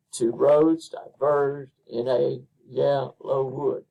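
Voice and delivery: slow, measured reading, split into beats; scanned line of verse. Shown as a demonstration. Teacher scanning a line of poetry, slow and measured. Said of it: "it's predominantly iambic".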